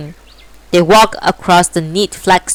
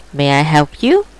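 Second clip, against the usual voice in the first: monotone voice; 3 semitones lower than usual. Acted. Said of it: "she said in a monotone voice".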